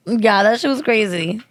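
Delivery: ordinary talk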